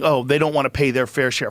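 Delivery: dismissive sing-song parody of the critics; mocking the progressives' fair share line; sneering mock quote. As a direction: mimic them with a scornful "Oh". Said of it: "That's saying".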